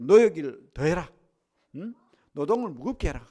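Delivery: loud commanding bark as Pharaoh; preacher voicing the king's harsh command, loud; Pharaoh's orders shouted. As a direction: yell the order to work harder.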